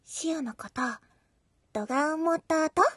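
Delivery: right in your ear. Acted. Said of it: "耳元で囁くかのような感じにしてみようかな。".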